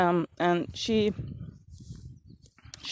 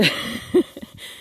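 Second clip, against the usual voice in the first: breathy laugh; 6 semitones higher than usual. Real, not acted. Laughing at herself.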